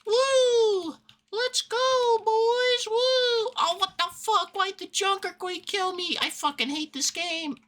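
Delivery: hyped-up squeaky gamer bro, very high; frat bro. Pretend. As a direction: whoop like a reckless bro, then rage. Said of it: "Being brave and pushing up does not mean".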